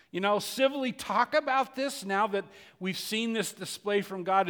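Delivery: loud, high, building preacher cry; preaching at full force. Acted. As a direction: preach it out with rising fervor. Preacher voicing Elijah's hopes.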